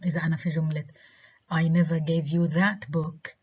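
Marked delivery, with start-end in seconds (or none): 1.5-3.3 that stressed, falling tune. Shown as a demonstration. Teacher stressing that, this book and no other. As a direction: lean on that, let it fall. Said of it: "أنا مركزة على الكتاب".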